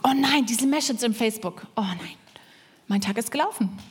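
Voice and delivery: groaning, sinking complaint; mock dismay. Preacher imitates powerless person reading Facebook, dismayed. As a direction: act dismayed, then deflate. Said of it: "Die Kraftlosen sagen".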